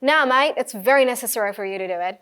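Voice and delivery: casual, slow Aussie accent; demonstrating an Australian accent. Shown as a demonstration. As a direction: put on an Australian mate-to-mate voice. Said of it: "आप इसे Australian में बोल रहे".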